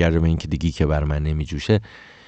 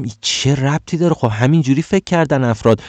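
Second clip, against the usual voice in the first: raised, incredulous mock argument; a retold, heated objection; exasperated retort; 6 semitones higher than usual. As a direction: scoff at the friend's logic, pitched up.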